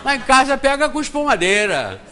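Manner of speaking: amused exclaim. Real, not acted. Laughing at own story.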